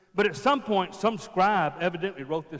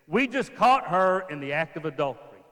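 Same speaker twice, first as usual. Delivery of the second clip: accusing elders; 8 dB louder than usual. Pretend. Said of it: "and say this".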